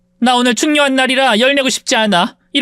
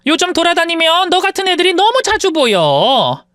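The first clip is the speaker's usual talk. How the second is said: lightly voiced sneering rich woman; haughty rich woman; 2 semitones higher than usual. Rich woman taunts her former maid, mildly sneering. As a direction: look down on her with a lazy sneer.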